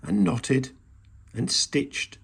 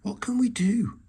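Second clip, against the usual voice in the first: squeaking; 10 semitones higher than usual. A narrator's reading. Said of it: "squeaked Mouse".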